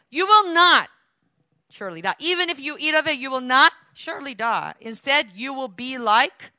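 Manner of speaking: a hint of a sly serpent; tempting serpent. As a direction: entice her with a sly promise.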